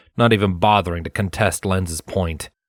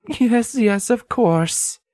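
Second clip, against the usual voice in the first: going along; much slower than usual. Acted. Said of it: "she went along".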